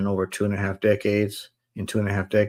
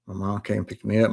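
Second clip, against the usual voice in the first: usual speaking voice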